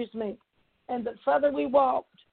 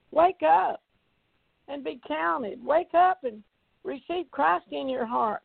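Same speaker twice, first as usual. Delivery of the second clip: urgent exhortation; 3 semitones higher than usual. Real, not acted. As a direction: urge them to rouse themselves. Urgent appeal to listeners to wake up.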